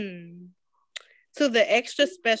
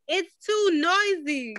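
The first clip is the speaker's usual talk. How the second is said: mild yell; 8 semitones higher, slower than usual. A narrator's reading. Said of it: "yelled her mother".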